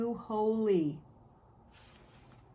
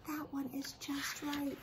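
slow, hushed whisper of delight; a slow, awed whisper; whispered just right; 5 semitones higher, 7 dB quieter than usual. Acted. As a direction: whisper it slowly, as if he found it. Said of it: "he says".

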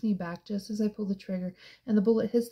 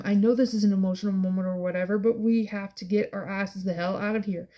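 impatient barking. Acted. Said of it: "Kenji barks".

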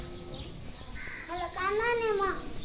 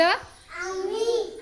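आम्ही said out louder; louder reading; 6 dB louder than usual. Real, not acted. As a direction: speak up on आम्ही. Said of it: "मोठ्याने, मोठ्याने वाच".

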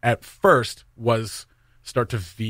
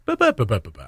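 Irish lilt. Shown as a demonstration. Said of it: "get into the music of it".

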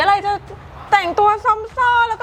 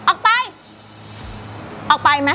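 angry throwing out. Acted. Shopkeeper throws man out.

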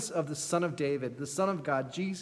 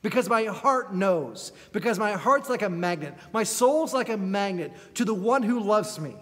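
raised, earnest voice rising to resolve; determined hope; 4 semitones higher, 4 dB louder than usual. Retold or imitated. Bartimaeus resolving to reach Jesus, earnest. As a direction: speak with growing resolve and hope. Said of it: "He knows".

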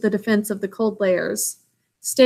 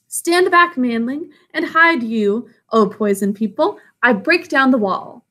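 commanding snake voice; 2 semitones higher than usual. Acted. Kaa commanding.

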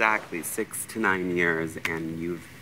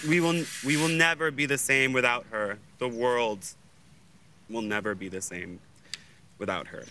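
mock solemn eulogy; 5 semitones higher than usual. Mock funeral eulogy, rising emotion.

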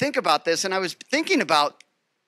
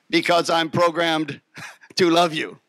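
laughing robot answer; 2 semitones lower than usual. Retold or imitated. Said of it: "why do you love me?".

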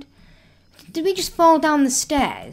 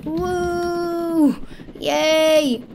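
high, drawn-out whoop; celebratory cheer; 6 semitones higher than usual. Pretend. Player celebrates escaping the prison, high happy cheer. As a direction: cheer with long held vowels.

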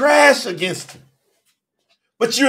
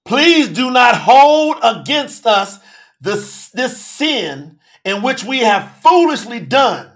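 slow humble plea; slower than usual. Acted. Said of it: "Now you saying".

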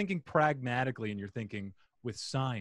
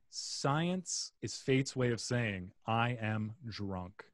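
slow quote reading; 6 dB quieter, much slower than usual. Shown as a demonstration. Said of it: "Inspirobot says".

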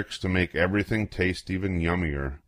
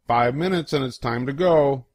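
put-on babysitter voice; 5 semitones higher than usual. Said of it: "babysitters always say".

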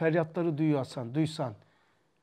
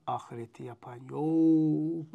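slow lament; slower than usual. Retold or imitated. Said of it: "Böyle yapardı".

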